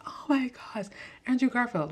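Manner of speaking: hammed-up starstruck fan; mock fangirl gush. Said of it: "personally wasn't like".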